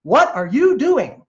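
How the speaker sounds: high, stumbling what what what; bewildered passer-by who can't find the words; baffled stammering questions. Retold or imitated. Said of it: "say stuff like".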